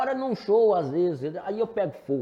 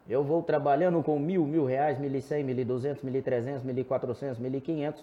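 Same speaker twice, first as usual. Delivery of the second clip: calm auction call; 4 semitones lower than usual. Shown as a demonstration. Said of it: "O leilão, por exemplo, eu estou leiloando um boi".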